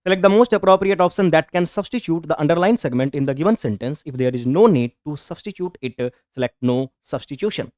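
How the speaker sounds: reading the question out slowly, word by word; measured classroom reading. Shown as a demonstration. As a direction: dictate it clearly to the class. Teacher reads question aloud slowly.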